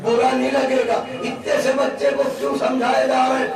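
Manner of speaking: high, loud rising sermon climax; preaching at full force. Acted. Preacher thundering to the majlis about Abu Talib's household. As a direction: build to a roaring pulpit crescendo.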